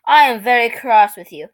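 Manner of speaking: mock British accent; lightly hammed British accent; strong British accent. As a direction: put on a British child's scolding. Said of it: "in a strong British accent".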